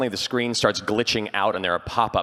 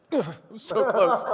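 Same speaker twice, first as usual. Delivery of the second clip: high-pitched comic lament; mock anguish; 14 semitones higher than usual. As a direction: bemoan the near miss in a high voice. Acts out regret while driving.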